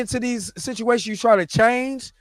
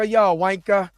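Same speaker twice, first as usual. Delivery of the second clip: imitating a British guy's slang insult; mock British accent; slower than usual. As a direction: try on a British accent, playfully. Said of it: "I love when British dudes be like".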